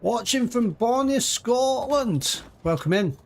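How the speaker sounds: high, drawn-out mock Scottish accent; bad Scottish accent. Streamer reading out a viewer's message from Scotland, bad Scottish accent. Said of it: "that was a really bad Scottish accent".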